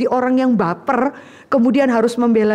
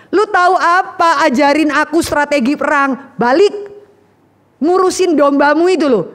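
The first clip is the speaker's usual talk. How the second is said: scornful big brother; 4 semitones higher than usual. Acted. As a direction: brush off the kid brother. Brothers scolding David.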